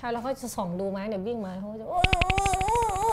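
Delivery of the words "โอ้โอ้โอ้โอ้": a gambler urging his horse home, ooh-ing much higher; imitating race cheering. Gambler at the track cheering his horse, a high mock cheer. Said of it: "เขาเสียงอย่างนี้เหรอ".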